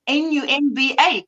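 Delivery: N U M B A said as separate letters; spelled out. Shown as a demonstration. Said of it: "now you gotta spell it".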